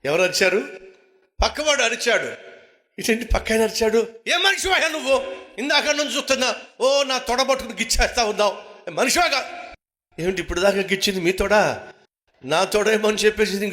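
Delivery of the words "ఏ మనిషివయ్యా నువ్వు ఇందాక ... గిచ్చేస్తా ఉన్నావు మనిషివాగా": preacher voices the neighbour's scolding, mild mock yell; mock angry yell. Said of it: "పక్కోడు గట్టిగా అరిచాడు".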